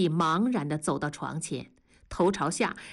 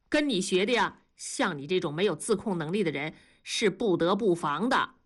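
理直气壮. Acted. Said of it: "同志理直气壮地说".

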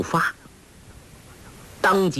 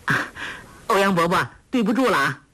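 playful laugh; 7 semitones higher, faster than usual. Acted. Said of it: "笑道".

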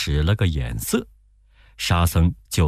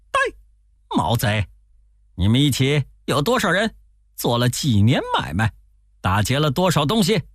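high, fast stern Wukong interrogation; commanding interrogation; 7 semitones higher than usual. Acted. Wukong interrogating bound thieves, stern high. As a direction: grill the thieves. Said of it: "大喝".

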